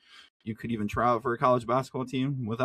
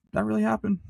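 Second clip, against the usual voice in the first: amazed disbelief; 9 semitones higher than usual. Retold or imitated. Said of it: "we're like".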